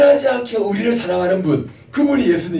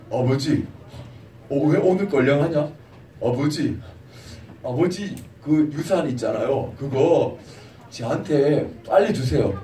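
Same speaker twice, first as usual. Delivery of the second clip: lower, softer pleading son; a spoiled son wheedling his father for money; whiny son; 5 semitones lower, 3 dB quieter than usual. Acted. 둘째 아들이 아버지에게 유산을 조르며 낮고 작은 목소리로. Younger son demands inheritance.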